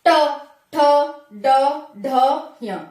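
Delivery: ट ठ ड ढ य with the tongue curled back, spaced apart; teacher modelling retroflex consonants ट ठ ड ढ य; retroflex sounds demo. Shown as a demonstration. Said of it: "मूर्धा से लगेगी".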